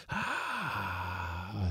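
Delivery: soft, drawn-out ghostly "ah"; faint choral "ah"; sung "ah". A narrator's reading. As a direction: let out a hushed, sustained "ah". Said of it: "sang the voices".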